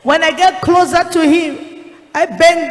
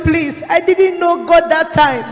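pleading; 3 semitones higher, 3 dB louder than usual. Retold or imitated. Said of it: "So I was pleading with him".

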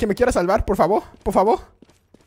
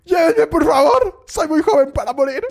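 desperate plea; 3 semitones higher, 3 dB louder than usual. Acted. Gamer begging teammates loudly to carry him. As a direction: beg the others to carry you.

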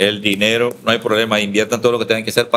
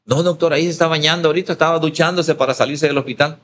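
fast, higher, eager nurse's reply; 6 semitones higher than usual. Retold or imitated. Nurse tells the doctor the patient is showering, eager and quick. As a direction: hurry to tell the doctor the good news.

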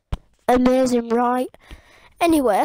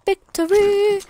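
triumphant; 6 semitones higher, slower than usual. Real, not acted. Celebrating kill.

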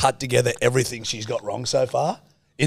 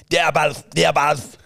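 lightly imitated thick Scottish nurse, a bit higher; mock a thick Scottish accent, mumbled; imitating the Scottish nurse's thick Scottish accent; 5 semitones higher, 4 dB louder, slower than usual. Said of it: "most thick Scottish fucking accent".

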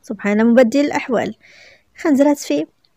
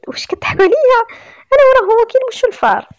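high, louder, amused disbelief; incredulous; 12 semitones higher, 6 dB louder than usual. A narrator's reading. Daughter disbelieving a marriage proposal, high-pitched incredulity.

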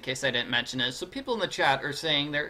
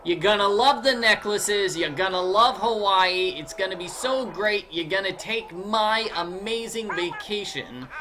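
a hint of a New York salesman's accent; mock New York accent, selling hard; Big Island Mike New York accent; 3 semitones higher than usual. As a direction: oversell the vacation with a light New York accent. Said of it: "He says".

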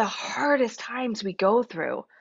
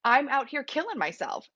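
higher-pitched, imitated exasperated complaint; mock resentment; 5 semitones higher than usual. Retelling a woman's complaint about her resting partner, mock exasperation. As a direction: complain as if unfairly overworked, lightly acted. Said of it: "I'm so mad at her".

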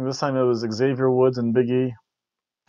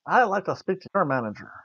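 whiny Kmart mother; 5 semitones higher, 3 dB quieter than usual. Retold or imitated. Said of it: "her voice sounds like a whiny Kmart mother".

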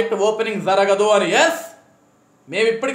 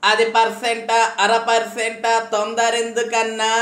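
slow, drawn-out mocking imitation of the minister's jibe; lightly voiced sarcastic mimicry; mocking sarcasm; slower than usual. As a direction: parrot his sneer back at him slowly. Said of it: "అసలు నీ ఎటకారం ఏది?".

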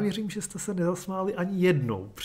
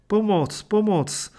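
high, loud cry for help; calling for help; 7 semitones higher, 8 dB louder, slower than usual. Acted. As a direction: yell for help into the dark street. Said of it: "Snažil se křičet".

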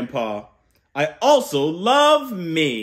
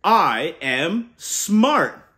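slow, slightly louder declaration; proud affirmation; 4 dB louder, much slower than usual. Shown as a demonstration. Uncle modelling the affirmation for kids, slow and sure. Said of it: "we boost our brains with".

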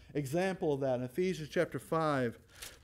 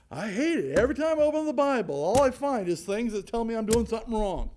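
whiny complaint, fast in the middle; mock complainer; 4 semitones higher, 5 dB louder than usual. Preacher mimicking people who avoid the Bible, mock whine. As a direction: act out a grumbling churchgoer. Voicing a reluctant churchgoer.

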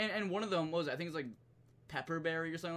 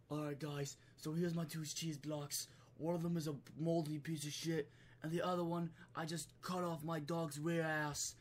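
Gordon Ramsay ASMR; 4 dB quieter than usual. Retold or imitated. Chef showing his cheese blocks, mock ASMR. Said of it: "A S M R shit".

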